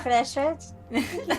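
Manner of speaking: lightly put-on British echo; teasing British mimicry; mock British accent. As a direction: repeat it in a bad British accent. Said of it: "my British accent sounds like".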